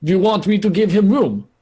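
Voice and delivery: high-pitched, indignant question; incredulous. Acted. Krakow balks at housing him.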